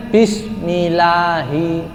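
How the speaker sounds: "bismillahi" slow with a single short l; wrong, tasydid dropped. Shown as a demonstration. Teacher showing the wrong way, l not doubled. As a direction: drag it out but skip the double l. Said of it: "Tasdidnya dibuang".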